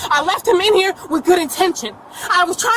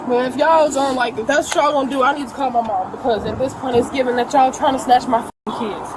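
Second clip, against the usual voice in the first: emotional; 5 semitones lower than usual. Real, not acted. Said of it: "I'm emotional right now".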